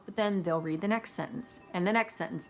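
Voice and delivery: monotone reader sinking at every "next sentence"; mock flat audiobook narration; falling sentence ends. Shown as a demonstration. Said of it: "their voice will go down at the end of a sentence".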